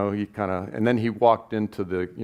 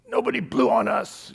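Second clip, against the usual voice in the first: incredulous retort; 13 semitones higher than usual. Retold or imitated. Swank denies the cop's claim.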